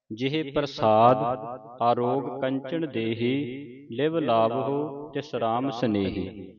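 slow, measured verse reading; scripture recitation. Shown as a demonstration. Teacher recites the ashtpadi for students to follow, slow recitation. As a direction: stretch the vowels and pause after each phrase.

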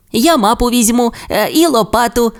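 high, bright little-dino eagerness; suddenly keen to set off; perked up. A narrator's reading. Timmi cheers up, offering to bring map and shovel. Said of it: "збадьорився Тіммі".

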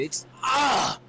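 high squeal of adoration; gushing, lost for words; overcome by cuteness. Real, not acted. Gushing over kittens.

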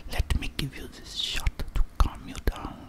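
put-on whispered retake of the German doctor accent. Correcting his Russian-sounding doctor into a whispered German accent. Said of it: "That, that sounded more Russian".

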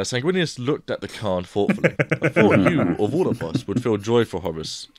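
reading a novel excerpt aloud, lightly voiced characters; story reading. Podcast host reading a Horus Heresy excerpt to friends, lightly voiced story reading. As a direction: read the primarchs' dialogue with a light touch.

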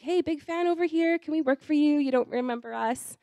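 playfully over-keen, high at first; eager fan pitch. Retold or imitated. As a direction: pipe up like a keen fan introducing themselves. Acts out her eager fan email.

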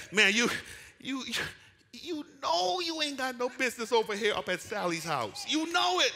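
loud scolding call, high and pressing; God's voice. Pretend. God rebuking a straying believer, loud and high. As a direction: call the sinner out of Sally's house. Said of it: "and God says".

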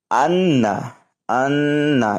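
আন্না with the ন্ন hummed through the nose; nasal ghunna. Shown as a demonstration. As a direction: hold the doubled n in আন্না nasally. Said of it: "এটা হচ্ছে গুণনা". (আন্না গুণনা দিয়ে পড়া)

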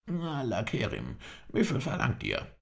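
frightened cry. A narrator's reading. Captive cries out in fear.

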